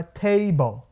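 "table" as TAY-bol, syllables clearly set out; correct model. Shown as a demonstration. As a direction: say "table" with long A and "bol" ending. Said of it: "geralmente pronuncia ball". ("table" com A longo)

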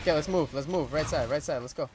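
loud, urgent callouts to teammate; urgent calling out. Real, not acted. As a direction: hurry them along, loud and urgent. Urgent co-op zombie run.

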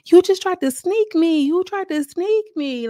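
high, loud, slow mocking yell; mock scream. Mocking a cast member screaming after the fight, high and loud. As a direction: imitate her screaming the accusation. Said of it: "she keeps screaming".

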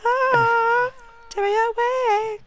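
mock dramatic plea.

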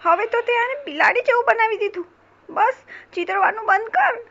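high-pitched mouse protest; alarmed protest. Acted. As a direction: protest in a high, worried squeak. Alarmed mouse demands drawing stop.

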